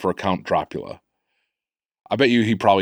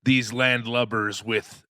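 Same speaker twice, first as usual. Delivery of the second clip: pirate voice; 4 semitones higher, much slower than usual. Acted. Pirate voice in the drop.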